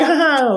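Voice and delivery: mock villain laugh. Acts nasty queen.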